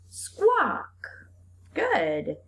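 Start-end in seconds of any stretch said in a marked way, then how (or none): 0.1-1.3 blended fast. Shown as a demonstration. Teacher blending sounds fast for the class. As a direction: squawk said fast and much higher. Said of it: "now we're gonna say it fast".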